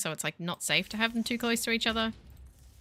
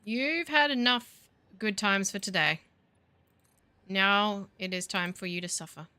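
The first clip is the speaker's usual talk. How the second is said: mock villain threat. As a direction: play a pantomime villain gloating at the game. Taunting the game like a villain.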